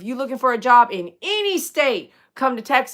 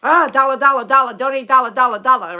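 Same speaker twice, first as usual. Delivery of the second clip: loud, higher mock Asian-accented patter; imitated Asian accent; 3 semitones higher, 7 dB louder, faster than usual. Mimicking a TikTok fortune-teller asking for money, imitated Asian accent. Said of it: "I get to talk like that".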